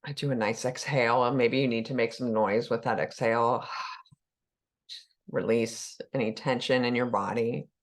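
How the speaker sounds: unhurried guiding voice with long pauses; calm meditation leader, letting phrases settle; guided meditation. Acted. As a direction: ease listeners into the body, leaving room to breathe.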